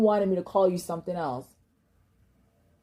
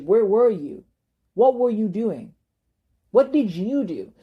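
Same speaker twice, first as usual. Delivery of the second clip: pin them down with each question; accusing questions; 3 semitones higher, 3 dB louder than usual. Real, not acted. To family who stayed away, loud accusing questions.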